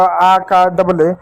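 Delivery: आ का डबल ए spelled out very slowly; slow teaching drill. Shown as a demonstration. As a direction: lay out each letter for children. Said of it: "अ का ए भी पढ़ते होगा". (धीरे-धीरे समझाते हुए)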